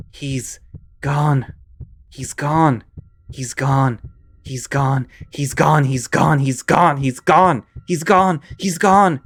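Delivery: building from tense to loud and high; chanting to calm yourself, rising to a shout; panicked repetition. Acted. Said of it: "You repeat the words over and over".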